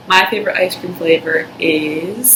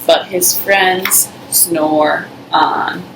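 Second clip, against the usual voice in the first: put-on reading to children. A narrator's reading. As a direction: read it like a bedtime story for little ones. Reading picture book aloud.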